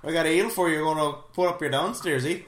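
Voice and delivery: lightly voiced Wisconsin accent. Co-host offering the eel cure, light mock Wisconsin accent. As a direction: play along as a mild mock Wisconsinite.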